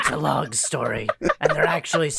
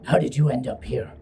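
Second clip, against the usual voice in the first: gravel voice; 3 semitones lower than usual. Acted. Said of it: "It's the gravel voice hour".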